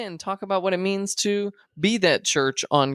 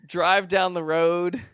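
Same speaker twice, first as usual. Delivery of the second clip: slow, drawn-out announcer hype. Pretend. Host tells listeners to get ready, announcer voice. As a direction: pitch each activity like an announcer. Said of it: "with my announcer voice".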